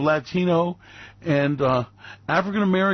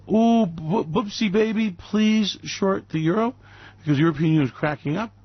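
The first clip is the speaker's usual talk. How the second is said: lightly cooing, a bit higher sweet-talk; mock cooing letter; 3 semitones higher than usual. Publicists' imaginary letter, lightly cooing mock sweetness. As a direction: coo it like a sappy love note. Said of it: "write you a little letter".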